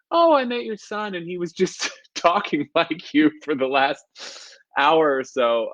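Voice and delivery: high-pitched, cheery explaining voice; imitated chatty townsperson. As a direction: play a friendly stranger explaining to mom. Townsperson answering his puzzled mom.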